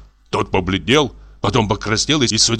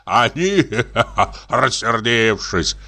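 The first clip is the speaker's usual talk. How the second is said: mocking words broken by a chuckle; laughing; slower than usual. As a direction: laugh through the jeer. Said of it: "засмеялся мужчина".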